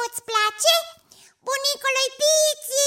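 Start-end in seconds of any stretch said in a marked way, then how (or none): 1.5-2.8 demonstrating own call. Shown as a demonstration. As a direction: show off how you call grandpa. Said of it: "Dar cum te strig eu". (strigare demonstrativă, prelungă)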